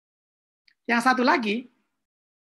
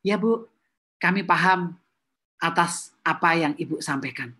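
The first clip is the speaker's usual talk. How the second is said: polite staff reply; 4 semitones lower than usual. Shown as a demonstration.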